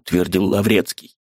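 usual speaking voice

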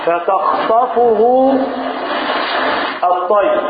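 very slow, drawn-out chanted verse; slow solemn recitation of the verse; Quran recitation. Acted. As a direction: stretch each word as in tajweed.

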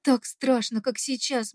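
usual speaking voice

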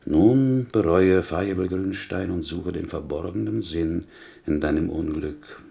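a hint of God speaking in judgment. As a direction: intone it like a voice from heaven. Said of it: "dann aber spricht er".

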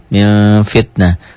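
MIM held long and slow, sliding into the F of FITNAH; veiled N towards M. Shown as a demonstration. Teacher demonstrating ikhfa before fa, drawn-out M-like nasal. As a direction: hum the end of MIM towards the F. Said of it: "tetapi ada unsur F, M-nya".

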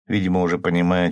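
ordinary delivery, nothing marked

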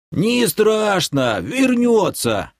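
медленно и высоко, по-стариковски; отмахнись от тревоги, протяжно; беспечный старик. A narrator's reading. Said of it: "пожал плечами Махруша". (беззаботно тянет высоким голосом)

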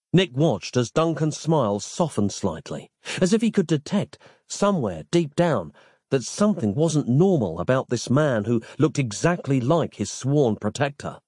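usual speaking voice

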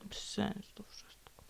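hushed, slow whisper. Real, not acted. Whispering to herself in her vlog, drained. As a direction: breathe it out, barely voiced.

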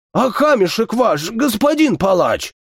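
choking, gurgling question. Acted. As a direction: ask it as if choking on your own spit. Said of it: "Захлёбывающимся, булькающим голосом".

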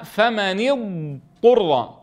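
فمن اضطر with the ض drawn long before the ط; careful tajwid recitation. Shown as a demonstration. Teacher to students, reciting فمن اضطر with a long ض. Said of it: "فيدغم الضاد في الطاء".

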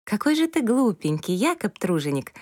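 bright playful tease; amused teasing. Acted. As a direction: tease him fondly, amused. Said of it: "развеселили нимфу".

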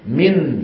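من with the نون tapped clearly by the tongue tip. Shown as a demonstration. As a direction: tap the n in من. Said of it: "فيقرع النون بطرف لسانه". (انطق نون من بطرف اللسان)

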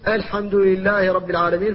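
light hamza in الحمد, not emphatic; correct pronunciation. Shown as a demonstration. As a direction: say الحمد with a thin, unpharyngealized alif. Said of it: "كما تقول".

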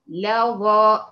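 لظى drawn out very slowly with a light lam; slow correct demo. Shown as a demonstration. Teacher drawing out the correct word slowly. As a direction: stretch لظى with a thin lam. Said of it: "أمال أقول إيه؟".

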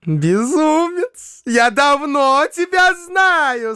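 high, slow, coquettish trill; rapturous playful babble. Acted. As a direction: tease him like a giddy girl. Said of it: "С восторженной игривостью пролепетала".

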